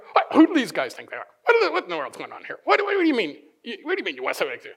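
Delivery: indignant sputtering, quick and stumbling; mock outrage, words tumbling out fast. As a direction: act out the offended grumbling. Disciples' indignant reaction acted.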